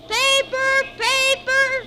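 high, loud newsboy street cry; hawking papers. Acted. Boy selling papers calls out loudly to the street. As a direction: call out to passers-by like a newsboy.

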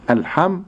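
الحمد with a rounded damma on the dal. Shown as a demonstration. Sheikh showing the damma timing. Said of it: "زمن الضم".

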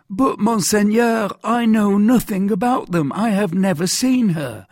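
high, loud, pleading character voice; protesting mercer. Acted. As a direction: protest your ignorance to a powerful interrogator. Voices anxious Bonacieux questioned.

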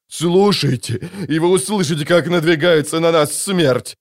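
rising alarm. Acted. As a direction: urge them to listen, growing panic. Warning of approaching death.

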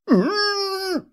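a high, crying hum through a gag; desperate gagged moan. Acted. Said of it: "самым отчаянным из голосов". (отчаянное мычание сквозь кляп)

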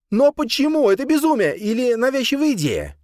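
agitated high demand; insistent. A narrator's reading. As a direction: Soliman refusing to drop it. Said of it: "не унимался Сулейман".

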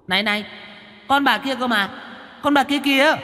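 put-on high, soft child-ghost voice; a tiny ghost pointing away from itself, high and hushed; startled little ghost. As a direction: squeak it out in a fright. Little ghost protests, frightened.

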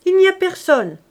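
high, loud report; shouting back. A narrator's reading. Daughter reports to her father, shouting back. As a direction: holler it to the next room.

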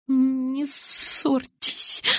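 high, slow, trembling begging; shivering plea. A narrator's reading. Bella begs the boys not to fight. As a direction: beg them to stop, shaking. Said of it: "взмолилась я".

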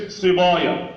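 put-on صبايا with dark, backed "boya"; wrongly heavy ب. Shown as a demonstration. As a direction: thicken ب and ي in صبايا. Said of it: "ما تفخمش الباء والياء". (صبايا بتفخيم الباء والياء خطأً)

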